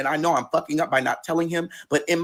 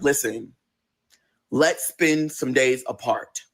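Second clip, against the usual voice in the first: calm, gentle; 4 semitones lower, much slower than usual. Retold or imitated. Boyfriend voiced gently ending talk.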